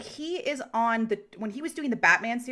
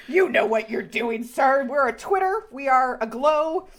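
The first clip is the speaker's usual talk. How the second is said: gushing fangirl; 3 semitones higher, 6 dB louder than usual. Retold or imitated. Fan gushing at the actor who called his co-star babe. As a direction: gush like a flustered fan. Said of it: "I was just like".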